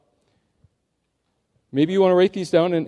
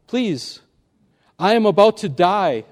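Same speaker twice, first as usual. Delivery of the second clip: pleading snake; 2 semitones higher, 3 dB louder than usual. Acted. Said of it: "said the snake".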